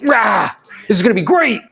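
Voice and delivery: hammed-up, high-pitched hype; mock cheer with a roar up front; overexcited. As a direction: imitate an agent thrilled by new software. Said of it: "when agents get overexcited about C R Ms".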